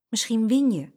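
a touch of bright hope; hopeful. A narrator's reading. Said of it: "zei Saskia hoopvol".

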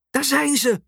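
mild mock shriek, very high-pitched; sudden shriek. A narrator's reading. Mum spotting the royal couple, a read-aloud shriek. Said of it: "Ze gilt opeens".

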